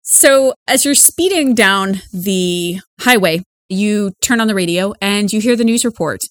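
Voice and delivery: measured news anchor delivery; radio news read. Acted. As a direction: report it like a local radio newscaster. Reads radio news report.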